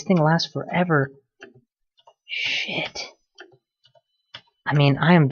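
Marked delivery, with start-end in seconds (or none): 2.3-3.1 whispered curse. Real, not acted. Sudden danger in game.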